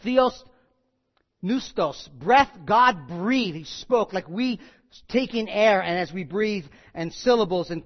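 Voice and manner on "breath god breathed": "breath, God breathed" drawn out slowly and loud; slow emphatic. Shown as a demonstration. Pastor drives home to congregation, slow and emphatic. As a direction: lean on each word of "God breathed".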